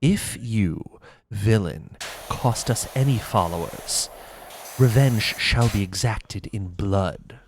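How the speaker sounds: a lightly voiced fake Astarion. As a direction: tease like a wounded aristocratic vampire. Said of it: "do my fake Astarion".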